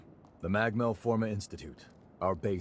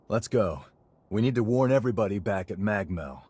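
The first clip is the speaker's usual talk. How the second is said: urgent call; 6 dB louder than usual. Acted. Urgent warning after bandit attack.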